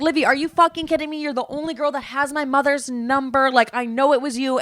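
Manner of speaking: mock his furious call; angry rant quoted. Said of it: "he was like".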